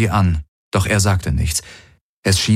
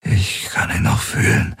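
dry, husky half-whisper; hoarse, drained murmur; parched voice. Acted. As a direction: speak through a parched throat. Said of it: "mit ausgetrockneter Stimme".

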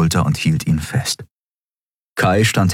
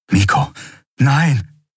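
entsetzter Ruf; 7 semitones higher, slower than usual. Acted. Junge getroffen am Boden.

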